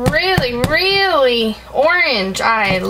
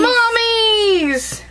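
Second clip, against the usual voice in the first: higher, insistent claim; playful insistence; 9 semitones higher than usual. Real, not acted. Playful tug of war, insisting.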